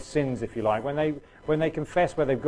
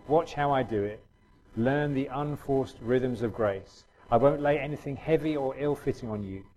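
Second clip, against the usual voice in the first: scripture reading. Acted. Reads scripture passage aloud.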